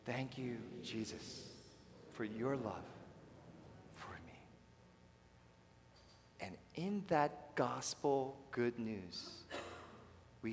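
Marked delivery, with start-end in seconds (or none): 0.0-4.4 softer, almost whispered prayer; hushed prayer. Shown as a demonstration. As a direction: breathe it as a private prayer. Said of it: "Here we go".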